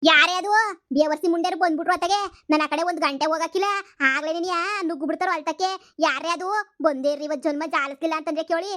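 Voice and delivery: put-on angry old grandmother. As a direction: drag out the call like a cranky granny. Grandma curses the bean thieves.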